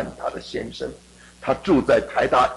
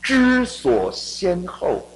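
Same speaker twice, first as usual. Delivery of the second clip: recited proverb; much slower than usual. Shown as a demonstration. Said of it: "中国人有一句话说".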